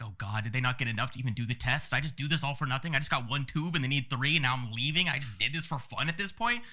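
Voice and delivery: mild retold panic, building; panicking inside. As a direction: rattle off the worries, lightly acted. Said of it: "I'm panicking in my head".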